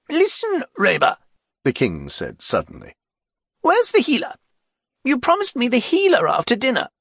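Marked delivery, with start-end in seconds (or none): 0.1-1.2 high, loud royal voice, lordly and bored; haughty king. Acted. The king calls Reba. 3.6-6.9 high, loud royal voice, lordly and bored; haughty king. Acted. The king demands his healer.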